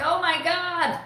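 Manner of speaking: high, strained "oh my God"; imitating her panic; retold panic. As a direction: gasp it in distress. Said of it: "I'm like".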